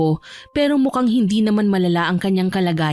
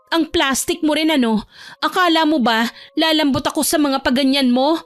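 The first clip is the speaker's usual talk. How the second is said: high-pitched, scornful younger sister; palabang bunso; 8 semitones higher than usual. Acted. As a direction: throw the apology back, pitched up. Bunso scorns cousin's apology. (mataas at mapanghamak na boses ng bunso)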